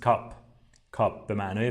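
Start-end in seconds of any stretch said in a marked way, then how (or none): 0.0-0.3 "کاپ" with a short vowel near aa; not a full aa. Shown as a demonstration. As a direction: say "کاپ" like English cup. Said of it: "نزدیک به آ هست ولی آ کامل نیست". (تلفظ «کاپ» با آی ناکامل)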